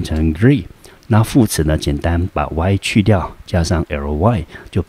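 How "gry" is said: "gry" said alone as the second syllable; syllable demo. Shown as a demonstration. Teacher splitting angry into syllables, syllable demo. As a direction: sound out "gry" as one separate syllable. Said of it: "G R Y念".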